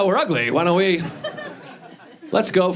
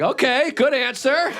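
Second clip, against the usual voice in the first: game show host; 6 semitones higher, slower than usual. Retold or imitated. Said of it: "It felt like Family Feud".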